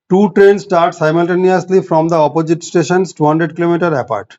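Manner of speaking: very slow, even reading of a word problem; measured classroom dictation. Shown as a demonstration.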